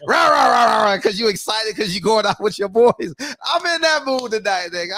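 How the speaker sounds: playful mock chant of excitement; mock hype shout. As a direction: bark the rahs like a hyped-up guy.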